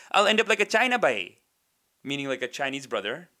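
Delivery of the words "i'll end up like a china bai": higher, louder mock punchline delivery; mimicked sitcom gag. Comic mimicking Indian sitcom actors, mock punchline. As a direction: imitate a comedian landing a cheap gag. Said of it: "sometimes they'll be like".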